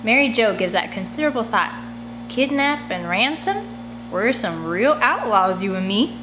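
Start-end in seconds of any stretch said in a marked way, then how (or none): 2.3-6.2 gleeful scheming. Acted. Mary Jo relishing the idea.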